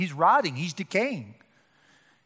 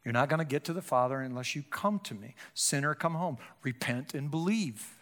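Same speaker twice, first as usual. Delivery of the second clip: quiet plea; 3 semitones lower, 6 dB quieter than usual. Acted. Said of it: "Jesus said".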